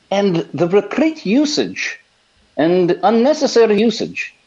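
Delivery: put-on lightly Welsh, old preacher voice; a hint of a Welsh pulpit voice; Welsh preacher impression. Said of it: "Doctor Lloyd Jones".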